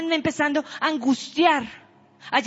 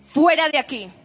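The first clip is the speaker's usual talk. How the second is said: fiery preaching; 2 semitones higher than usual. Acted. Preacher commands congregation's troubles to leave, shouting. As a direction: cast it out like a preacher at full force. Preacher rebukes illnesses, urges belief.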